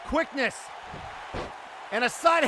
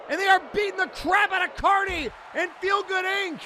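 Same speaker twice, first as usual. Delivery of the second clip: frantic shouting; 4 semitones higher than usual. Real, not acted. Commentator screaming to viewers at the surprise run-in, frantic shouting. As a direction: lose it as the surprise attackers storm in.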